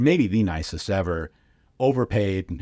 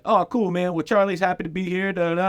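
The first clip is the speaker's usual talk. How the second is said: imitating Freeze; 10 semitones higher than usual. Freeze speaking for Charlie.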